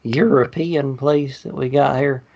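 lightly voiced Southern host; mock Southern guide. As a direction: hawk tea like a country bumpkin. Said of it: "talk with an accent".

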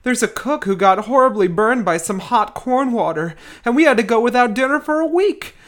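put-on reading a frightened kid's letter home; mock-worried camper writing home. Reads camp letter in character.

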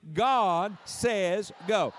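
slow, emphatic Pentecostal proclamation; drawn-out, forceful preacher's call. Shown as a demonstration. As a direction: preach it at a sinner, word by word. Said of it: "say it like a Pentecostal preacher".

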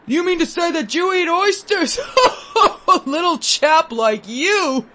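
high, laughing mock disbelief; amused gentleman. A narrator's reading. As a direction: laugh down at the little boy. Gentleman mocking the boy, laughing.

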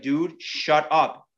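slow, controlled annoyance, mildly mad; retold irritation. Angler getting mad at his doubting buddy, mild slow irritation. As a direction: spell it out to a buddy who won't stop. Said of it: "I was getting mad now".

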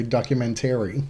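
"documentary" with a flat Great Lakes "-tary", stress on "tary"; great lakes accent. Retold or imitated. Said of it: "Or as you and your family like to say".

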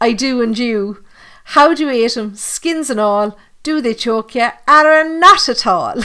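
put-on playful Cork accent, lilting through a comic rhyme; best Cork accent. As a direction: recite it as a joke in a Cork accent. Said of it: "that's my best Cork accent".

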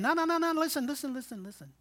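urgent no, no, no, then dropping to a hushed listen, listen; a hint of an insistent divine voice; voice of God. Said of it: "God keeps interrupting you and simply saying".

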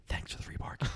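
soft, voiceless whisper. Shown as a demonstration. Reading the film quote off a quotes page, whispered. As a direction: whisper it as the script directs. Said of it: "it says whispering".

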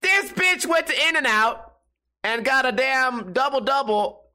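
mock outrage. Mock outrage at girlfriend's order.

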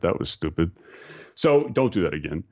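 light mock Dutch accent, gentle reproof. Mentor gently telling him off after a mistake, light Dutch accent. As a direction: quote the mentor with a hint of Dutch. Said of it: "you know, his Dutch accent".

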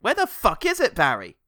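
high, loud call to Barry; mock exasperated yell. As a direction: yell across the room in mock annoyance. Mock hunt for the telescope.

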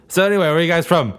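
comedy bit quote. Retold or imitated. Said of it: "a comedy duo's bit".

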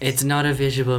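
little dog voice, deadpan; yappy chihuahua voice. Pretend. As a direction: speak as a small pet dog. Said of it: "this is the voice of a chihuahua".

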